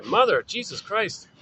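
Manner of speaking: put-on freaking-out baby. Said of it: "Poor baby's freaking out here".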